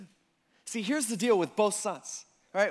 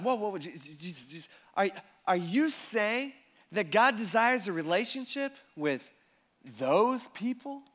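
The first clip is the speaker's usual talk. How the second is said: scandalized; 2 semitones higher than usual. Retold or imitated. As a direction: drag out the disbelief at those people. Religious people aghast.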